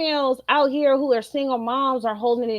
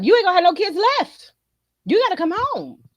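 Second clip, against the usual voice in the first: frantic plea; 7 semitones higher, faster than usual. Retold or imitated. Pleading husband come home.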